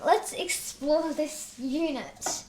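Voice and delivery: slow teacher reading from a textbook. Pretend. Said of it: "I sound like I'm in school".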